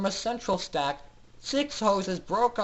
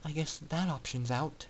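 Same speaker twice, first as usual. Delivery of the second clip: softer, resigned murmur; quiet; 8 dB quieter than usual. Acted. Aurora quietly remarks to no one, resigned. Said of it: "Aurora quietly said".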